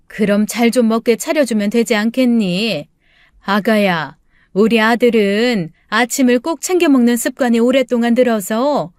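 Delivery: lightly voiced, nagging mother-in-law; reproachful mother-in-law. Mother-in-law urges daughter-in-law to feed her son, mildly reproachful. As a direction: press the point with mild reproach.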